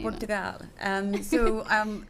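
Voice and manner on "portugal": put-on Portugal repeated in a learner's Portuguese accent; imitated Portuguese accent. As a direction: try the Portuguese pronunciation, por-too-GAL. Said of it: "look at that accent. Well done".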